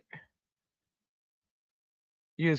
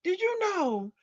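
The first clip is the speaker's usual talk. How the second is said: light Southern drawl, loud on the first Barbara; slow Southern drawl; 9 semitones higher, 5 dB louder than usual. Retold or imitated. Niece talking to her aunt, in a slow Southern drawl. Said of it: "she's got that slow Southern drawl".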